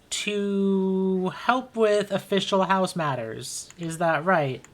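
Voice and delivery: a hint of a dry noble, drawn out slowly in places; Mister Vallis, lightly voiced. Noble questioning visitors about the miscreants they brought, slow and dry. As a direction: let the pauses sneer at the miscreants.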